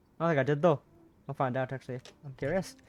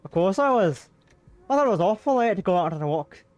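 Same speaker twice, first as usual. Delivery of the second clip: louder worried Scottish gentleman; Mr Brown, concerned; 3 semitones higher, 5 dB louder than usual. Acted. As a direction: fuss over her a little louder.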